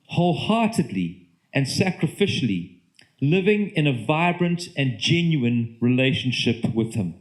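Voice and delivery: measured reading with pauses between phrases; deliberate, unhurried read-aloud; slow reading. Real, not acted. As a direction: read the statement out slowly, phrase by phrase. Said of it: "I'm gonna read it slowly to you".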